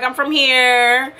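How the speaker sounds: slow, dragged-out dismissive answer; rude. Retold or imitated. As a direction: stretch the end like the question annoys you. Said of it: "I was being straight rude".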